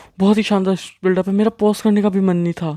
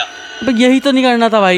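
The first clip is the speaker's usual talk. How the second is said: louder, higher exasperated protest; exasperated reaction; 3 semitones higher, 4 dB louder than usual. Real, not acted. Viewer scolding a horror story character, exasperated. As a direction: cry out in real dismay.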